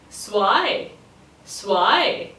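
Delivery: Zwei said as "swai", rising; so-why run together. Shown as a demonstration. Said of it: "Think of saying so, why together and quicker".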